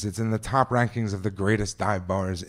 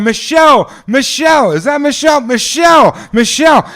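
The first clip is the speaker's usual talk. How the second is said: put-on loud, high drunken crowd yells; crowd cheering; 14 dB louder than usual. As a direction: yell her name like a cheering drunk crowd. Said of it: "They're going".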